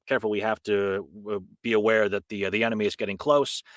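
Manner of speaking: put-on mild Eastern European accent, careful warning. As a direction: imitate a Polish character's accent, restrained. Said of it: "doing my, my accent saying".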